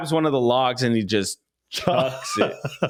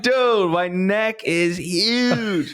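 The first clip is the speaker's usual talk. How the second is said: high, very slow stunned exclamation; shocked; 9 semitones higher, much slower than usual. Retold or imitated. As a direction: drag it out in disbelief at the mirror. Shocked at own reflection.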